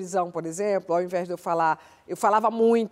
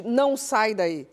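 calm warning; slower than usual. Shown as a demonstration. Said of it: "não grite".

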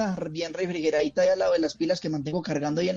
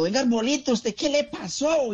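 doctor voice; 7 semitones higher than usual. Acted.

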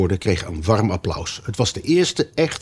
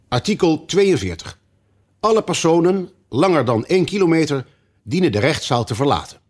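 king reading law; 8 semitones higher than usual. Acted. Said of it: "en las voor uit zijn boek".

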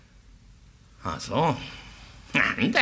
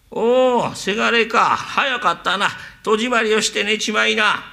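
father; 5 semitones higher than usual. Acted. Father answers from inside.

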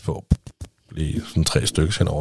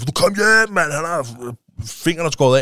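mock panicked shout; 8 semitones higher, slower than usual. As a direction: yell it like a frantic call home. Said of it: "sådan der totalt bare råbte ind".

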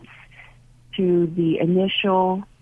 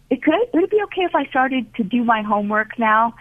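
hopeful request; 5 semitones higher, faster than usual. Retold or imitated.

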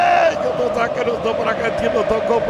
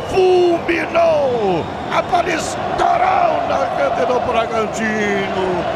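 explosive goal commentary; 3 semitones higher than usual. Real, not acted. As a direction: call the goal with full excitement. Goal celebration play-by-play.

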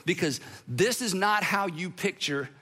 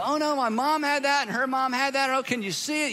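higher, hammed-up dismayed patient; mock alarmed patient; 5 semitones higher than usual. Patient hearing she has pleonexia from the doctor, mock dismay. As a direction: play the shocked patient for laughs. Patient reacting to diagnosis skit.

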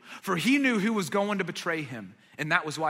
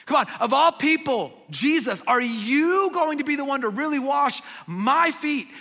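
"you" hit higher and louder, incredulous; louder disbelief leaning on "you"; stress on you; 6 semitones higher, 6 dB louder than usual. Shown as a demonstration. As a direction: punch "you" and "my" in "are you going to be the one to really wash my feet". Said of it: "The emphasis in the Greek is on you and my".

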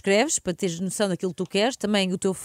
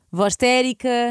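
mystic voice; 4 semitones higher, 6 dB louder, much slower than usual. Shown as a demonstration. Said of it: "Mas qual voz?".

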